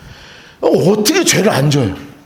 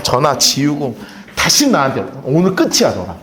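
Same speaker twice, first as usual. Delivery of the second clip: mock fed-up friend; 6 semitones lower than usual. Preacher acts betrayed friend cutting off.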